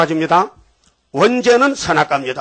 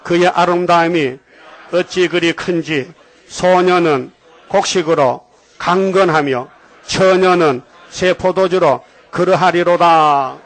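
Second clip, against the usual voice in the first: slow, measured scripture reading for the church to echo; call-and-repeat recitation; slower than usual. Shown as a demonstration. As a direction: read it slowly so they can repeat. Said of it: "따라합시다". (느리게 따라 읽게 하는 성경 낭독)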